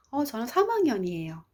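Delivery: gently voiced polite student reply; soft-spoken student. Student answering a friend's mother, soft and obliging. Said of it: "나긋나긋하게 대답을 했어요".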